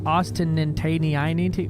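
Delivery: Ostentatious stretched very slowly, syllable by syllable, in disbelief; drawn-out disbelief. Real, not acted. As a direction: drag Ostentatious out like it can't be real. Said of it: "What the fuck is that?".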